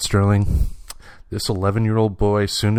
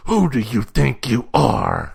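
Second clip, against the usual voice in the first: mock confrontation; slower than usual. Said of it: "get in his face and go".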